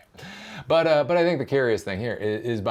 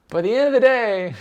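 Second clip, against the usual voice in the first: high and louder, driving it home; high loud emphasis; 13 semitones higher, 8 dB louder, faster than usual. Acted.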